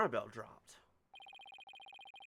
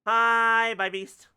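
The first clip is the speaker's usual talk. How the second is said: excited greeting; 7 semitones higher, 13 dB louder, much slower than usual. Real, not acted.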